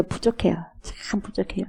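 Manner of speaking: 목소리를 낮춰 털어놓듯; 점점 잦아드는 나직한 고백; 부족함의 고백. Acted. 목사가 하나님께 부족함을 고백. (나직이 고백하듯)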